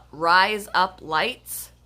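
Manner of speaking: slow drawn-out Aussie vowels; Australian accent. Shown as a demonstration. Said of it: "with an accent".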